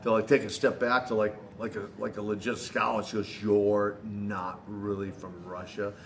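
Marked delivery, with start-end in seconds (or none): 3.4-5.9 slow, light mock Russian accent on "You're not really from Russia"; a hint of a Russian fan's accent, drawn out; lightly imitated Russian accent, slowed and accusing; broken Russian English. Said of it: "she says that kind of broken English".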